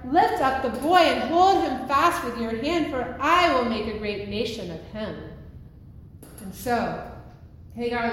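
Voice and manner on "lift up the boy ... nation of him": louder, commanding declaration; God's command. Acted. God telling Hagar to lift up the boy, commanding. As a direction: proclaim it firmly as a divine command. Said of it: "God provided a well of water and told Hagar".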